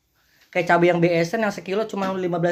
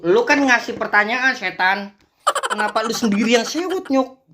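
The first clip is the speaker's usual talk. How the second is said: higher-pitched exasperated scolding; indignant retort; 5 semitones higher than usual. Real, not acted. Creator telling off the touchy woman in the clip, indignant. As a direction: fire back, voice jumping up.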